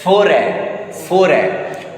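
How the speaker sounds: "Foray" ending in an open A sound; French pronunciation. Shown as a demonstration. Teacher showing students the silent ending, "Foray" as French pronunciation. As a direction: say "Foray" clearly, closing on a falling A. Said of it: "O will be pronounced A".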